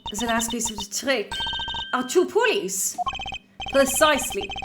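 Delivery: a light, bad Southern accent. Character praises the prosecutor in a bad Southern accent. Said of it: "it's a very bad South, Southern accent".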